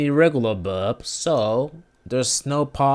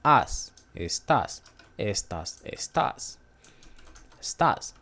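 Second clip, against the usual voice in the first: estás with the voice raised on the final ás; stress on last syllable; 3 semitones lower, 3 dB quieter than usual. Shown as a demonstration. Teacher showing where volume rises, estás stressed on ÁS. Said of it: "try to higher the, the vo-, the volume".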